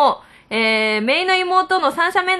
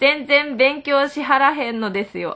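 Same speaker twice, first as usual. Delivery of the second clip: Kansai dialect reading. Retold or imitated. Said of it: "あ、これ関西弁。".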